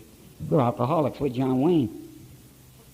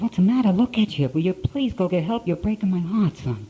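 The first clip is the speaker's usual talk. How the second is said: high, pleading mother's voice; imitating weeping mother; 7 semitones higher than usual. Weeping mother begs her drunk son to get help, high and pleading. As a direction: voice his heartbroken mother begging.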